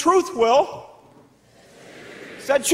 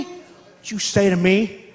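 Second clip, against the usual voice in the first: slow, lower threatening mother; menacing mom; 4 semitones lower, slower than usual. Retold or imitated. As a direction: drag it out like a warning. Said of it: "what would Mom say".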